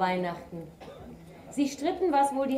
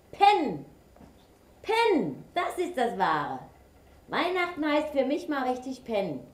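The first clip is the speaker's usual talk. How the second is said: higher, odd badger voice; 6 semitones higher, 4 dB louder than usual. A narrator's reading. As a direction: play a lazy badger. Badger raves about sleeping.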